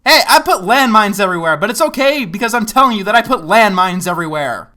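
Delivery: mocking paraphrase. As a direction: parrot the disclaimer with a sneer. Mocking the video's disclaimer.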